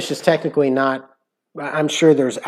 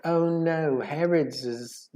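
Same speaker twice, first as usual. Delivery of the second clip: British accent, attempted softly; British YouTuber; 3 semitones higher, 7 dB quieter, much slower than usual. Mimicking a British YouTuber for Tiffany, soft British accent. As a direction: try a quiet British YouTuber voice. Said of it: "Can you talk like her?".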